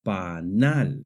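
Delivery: panal with the stress on NAL; stress on last syllable. Shown as a demonstration. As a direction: lean on the second syllable of panal. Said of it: "has the stress on the last syllable".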